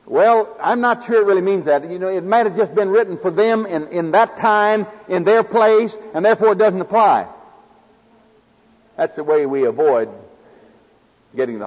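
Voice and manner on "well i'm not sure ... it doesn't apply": rationalizing believer. Retold or imitated. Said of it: "Or we say".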